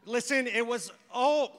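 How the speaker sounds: loud, flustered mock apology; mortified apology. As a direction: act out being horrified at your own blurt, stumbling over the sorry. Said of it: "totally caught herself in this thing".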